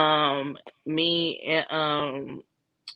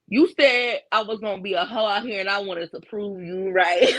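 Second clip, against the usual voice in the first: laughing; 3 semitones higher than usual. Retold or imitated. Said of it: "I was like".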